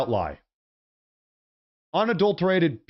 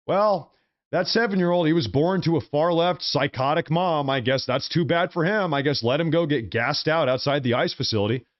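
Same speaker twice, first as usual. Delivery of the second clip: callous mock quote; 3 semitones higher than usual. Parodying uncaring Christians for his audience, mild mock indifference. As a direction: play the heartless believer with a hint of sneer. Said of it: "I wanna talk about being a Christian".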